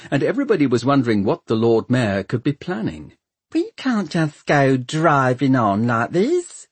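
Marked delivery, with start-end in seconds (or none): 3.5-6.7 high, complaining servant voice; raised-pitch household gossip; muttering servant. A narrator's reading. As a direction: grumble as a worried servant. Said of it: "one of her servants mutter".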